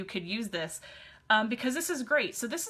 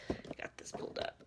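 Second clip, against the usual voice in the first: muttered aside; 13 dB quieter than usual. Real, not acted. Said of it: "muttering while pulling up phone".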